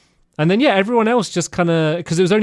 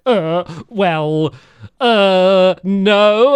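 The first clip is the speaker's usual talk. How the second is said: hammed-up, drawn-out cartoonish hesitation; gruff caricature; 4 semitones higher, 4 dB louder, much slower than usual. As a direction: stall loudly like a badly lying cartoon character. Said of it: "this really gruff voice".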